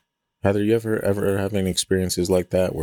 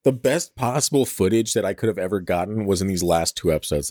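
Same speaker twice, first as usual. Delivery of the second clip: higher-pitched, exasperated venting; pissed off; 3 semitones higher than usual. Real, not acted. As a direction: vent real frustration at a missed chance. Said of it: "I'm so pissed".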